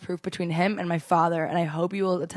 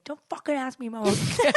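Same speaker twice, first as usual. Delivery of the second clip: mock exasperation, higher pitched; retold irritated boyfriend; 5 semitones higher than usual. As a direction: imitate a fed-up sick boyfriend. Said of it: "He's like".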